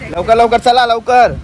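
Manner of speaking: loud hurried call to come in; urgent calling out. Real, not acted. Man calling family in from sudden rain, loud and urgent.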